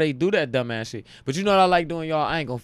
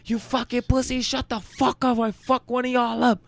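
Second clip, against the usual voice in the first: much higher mock yell in a put-on Russian voice; yelling Russian inmate; 10 semitones higher than usual. The Russian yelling at inmates on the block, mock yell. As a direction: bark like a big cocky Russian. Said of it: "he was yelling at everybody".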